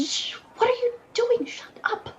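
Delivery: hushed, whispered scolding; urgent whisper. Acted. Prisoner shushing a noisy cellmate, urgent whisper. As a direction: whisper it so the guard won't hear. Hushing fellow prisoner within guard's earshot.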